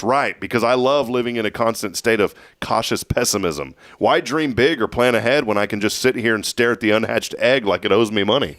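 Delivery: mild sarcastic mock agreement; sarcastic roast. Host flipping a proverb for his co-host, mildly sarcastic. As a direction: roast the proverb with feigned enthusiasm. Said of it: "here's how you flip another one".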